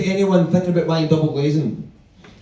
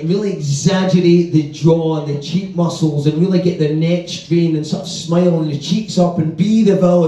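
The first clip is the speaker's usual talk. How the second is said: exaggerated enunciating coach. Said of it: "voice coaching, enunciate".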